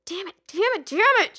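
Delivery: high, rising angry curse; frustrated cursing. A narrator's reading. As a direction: spit out each damn. Cursing at her mirror.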